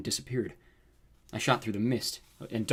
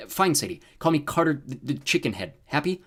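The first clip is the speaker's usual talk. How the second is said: higher, grudging comeback to a sister; exasperated; 4 semitones higher, 4 dB louder than usual. Acted. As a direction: give in with sarcastic annoyance. Giving in to sister's teasing.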